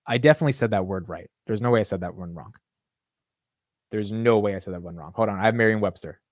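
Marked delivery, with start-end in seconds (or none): none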